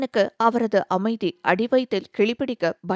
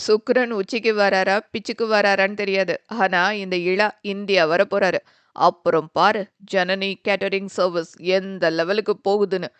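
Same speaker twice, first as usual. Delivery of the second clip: louder, proud, lightly lowered; boasting brother; 3 dB louder than usual. Acted. Brother boasting about coming home, lightly voiced. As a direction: brag with a grin.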